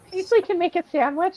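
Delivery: high, laughing through the words. Real, not acted. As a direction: giggle it out. Laughing about Paisley.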